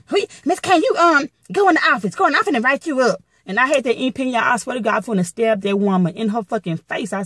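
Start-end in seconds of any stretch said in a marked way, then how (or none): 0.1-3.2 high-pitched mock supervisor's order; imitated bossy supervisor. Supervisor threatens to write her up, imitated bossy order. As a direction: mimic a supervisor ordering someone to the office, pitched up.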